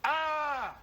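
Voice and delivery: high, loud but held-in yell; contained scream; controlled demo scream. Shown as a demonstration. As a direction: yell while keeping control. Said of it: "It even stifles the sound".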